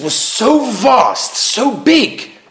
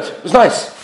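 casual, noncommittal reply; brief husbandly shrug of an answer; offhand man's answer; 2 semitones higher than usual. Retold or imitated. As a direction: toss it off as all there is to say. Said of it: "such a man's reaction".

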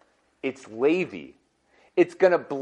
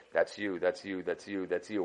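quiet pointing out; 11 semitones lower, 14 dB quieter than usual. Acted. Judge identifies each person.

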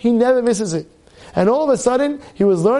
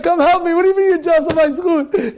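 retold protest; 6 semitones higher than usual. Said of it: "I was like".

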